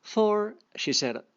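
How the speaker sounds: a lightly voiced storybook reading; story reading. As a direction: read the fable aloud to the class. Reading fable aloud to learners.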